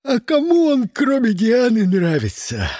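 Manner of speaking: high, loud yawned question; yawning. Retold or imitated. Bored hero yawning at Charles's musings. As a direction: say it through a big yawn. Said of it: "зевнул я".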